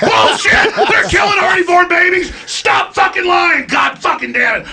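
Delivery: angry laughing shout. Real, not acted. Alex to Joe about babies, laughing angry shout. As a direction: blow up and yell.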